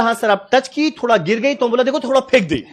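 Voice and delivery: lightly mimicked South Indian accent; mocking South Indian tone. Trainee excuses himself to the man, lightly mimicking his South Indian accent. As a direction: explain with a teasing touch of South Indian accent. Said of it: "हम उसका tone का ही मजाक उड़ा रहे हैं".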